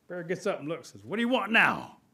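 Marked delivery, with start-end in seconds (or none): 1.0-2.0 raised, loud exasperation; annoyed retort. Acted. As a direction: snap at a pest who keeps interrupting. Bear annoyed at being interrupted.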